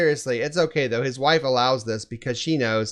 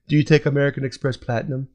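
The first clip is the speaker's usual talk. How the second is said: put-on quick valley girl question; breezy rich housewife voice; faster than usual. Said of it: "What accent was that?".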